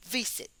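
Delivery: "visit" with the first syllable strong; first-syllable stress. Shown as a demonstration. Teacher recapping the rule, first-syllable stress on "visit". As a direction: lean on the VI of "visit". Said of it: "La primera es fuerte".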